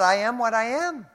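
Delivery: high and loud, each word driven home; forceful scripture quote. Acted. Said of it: "Paul wrote".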